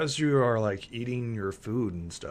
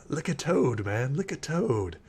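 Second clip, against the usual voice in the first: lightly voiced relax-man type; laid-back council member; 5 semitones higher than usual. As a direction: lightly play a guy urging everyone to relax. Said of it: "You hear somebody who's like".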